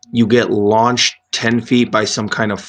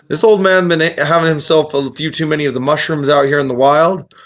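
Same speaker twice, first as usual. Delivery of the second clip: lightly voiced grumbling giant; gruff Korg voice; 4 semitones higher than usual. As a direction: mutter it like a sulky stone giant. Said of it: "Korg's like".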